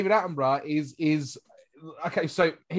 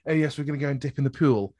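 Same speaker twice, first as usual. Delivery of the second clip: put-on quick Queen's English accent; 3 semitones lower, faster than usual. Imitating posh speakers off for a dip, Queen's English accent. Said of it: "that's Queen's English".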